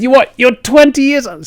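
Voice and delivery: high, loud astonished voice; mock incredulous. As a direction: act out his disbelief. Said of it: "He said".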